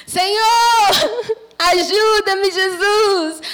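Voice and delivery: high tearful begging cry; crying plea. Acted. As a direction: beg for help through tears. Crying for help from hole.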